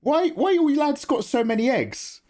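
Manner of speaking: pitched well up, mocking the girls; high put-on voice for the girls at the next table; mock girls' voice. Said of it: "the girls on this table next to us were just like".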